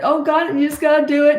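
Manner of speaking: a leader losing his nerve before battle; mock-panicked commander; unsure panicky leader. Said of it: "wouldn't you feel unsure".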